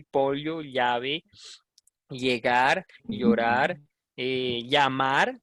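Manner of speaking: pollo, llave, llegar, llorar, llamar each with palatal "ly"; word by word, llave as "LYA-ve", pollo as "POL-yo"; original ll pronunciation. Shown as a demonstration. Teacher demonstrating the original double L, llamar as "lyamar". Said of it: "la pronunciación de la doble L".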